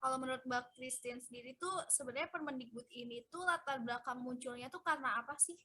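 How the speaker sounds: faint, too quiet to hear; barely audible. Real, not acted. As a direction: voice barely coming through. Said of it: "suaranya terlalu kecil".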